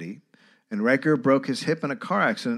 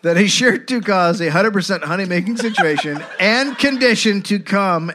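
louder, laughing through "honey-making"; reading through laughter; 6 semitones higher, 7 dB louder than usual. Real, not acted. Host rereads the quote for cohosts, cracking up. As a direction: try to read it but crack up. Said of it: "He, he, he overkilled it".

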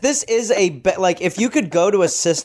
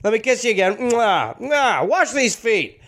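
lightly raised, hammy hobo voice with kiss smacks; between kisses; 4 semitones higher than usual. Retold or imitated.

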